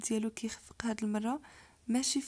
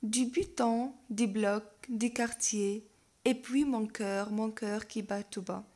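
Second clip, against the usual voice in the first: slow, drawn-out verse reading; poem recitation; much slower than usual. Acted. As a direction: recite line by line, slowly. Reads poem aloud.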